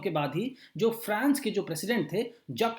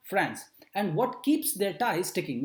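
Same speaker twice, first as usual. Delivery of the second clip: slow, "France and what keeps their ties sticking" in small pauses between words; read with breaks; much slower than usual. Shown as a demonstration. Teacher reads the headline to the class, slow and broken up. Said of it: "थोड़ा सा break करके जब आप इसको पढ़ते हैं".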